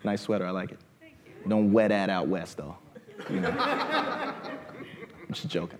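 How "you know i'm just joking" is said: laughing. Real, not acted. Teasing audience member.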